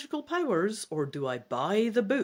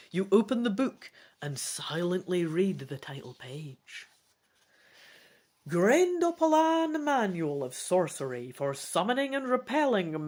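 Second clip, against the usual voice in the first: story narration. A narrator's reading. Gamebook narration read aloud.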